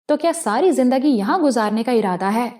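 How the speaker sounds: irritated question rising at the end; a touch of annoyance; exasperated. Acted. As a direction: push back impatiently. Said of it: "میں جھنجھلا کر بولا".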